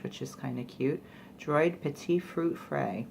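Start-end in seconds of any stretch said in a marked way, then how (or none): 1.4-3.1 slow, badly pronounced French; horrible French pronunciation. Shown as a demonstration. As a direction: attempt French in a clumsy accent. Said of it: "That's my horrible French pronun".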